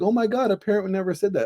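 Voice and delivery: high, quick mock teacher gasping out the line; shocked laughing teacher. Teacher laughing at a parent mocking her own son, high and quick. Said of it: "she started laughing and she's like".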